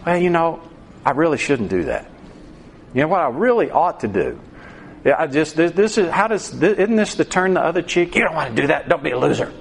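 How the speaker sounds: a hint of an inner tempter talking you out of it; inner voice of conscience. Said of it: "But then don't you hear".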